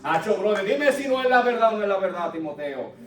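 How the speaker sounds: put-on a Puerto Rican accent, brother to brother; Pablo as a Boricua. Paul hyping up Timothy in Puerto Rican accent. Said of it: "Así lo diría un boricua".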